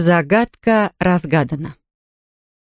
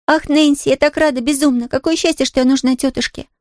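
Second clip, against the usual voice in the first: put-on a much higher, overjoyed girl's cry; stormy joy; 8 semitones higher than usual. Pollyanna rejoices to Nancy, much higher overjoyed cry. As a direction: burst out with happiness. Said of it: "бурной радости, охватившей Полианну".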